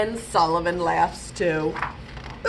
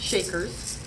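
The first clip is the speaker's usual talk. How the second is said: soft parts; 3 semitones lower, 6 dB quieter than usual. Shown as a demonstration. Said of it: "for the soft parts".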